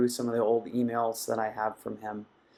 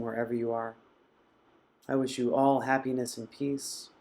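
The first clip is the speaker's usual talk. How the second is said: meditative well-wishing. Real, not acted. Leads closing well-wishes, long pauses.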